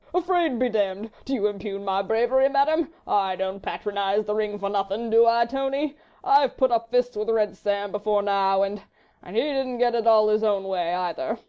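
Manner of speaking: loud, languid society fop; a lazy, amused dandy, mocking; foppish dandy. A narrator's reading. Sir Percy's foppish voice.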